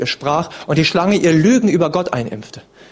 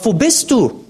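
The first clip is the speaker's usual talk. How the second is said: Gott ruft; 6 semitones higher, slower than usual. Acted. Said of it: "rief Adam und sprach".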